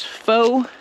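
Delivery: fo-cus split as "foh... k's"; fo-cus with a long "oh", then a tiny "k's"; vowel-dropped ending. Shown as a demonstration. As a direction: pause inside fo-cus, ending on a bare "ks". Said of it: "just pronouncing the C and the S".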